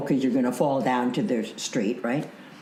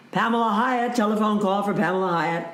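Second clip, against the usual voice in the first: high, sing-out hotel page; bellhop paging; 7 semitones higher than usual. Retold or imitated. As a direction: call it out like a bellhop paging a guest. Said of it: "a bellhop calls".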